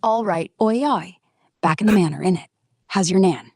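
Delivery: mock London geezer accent; full London accent. Shown as a demonstration. AI shows off London accent on host's request, London accent. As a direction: lay on a cheeky London accent. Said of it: "No, go full London".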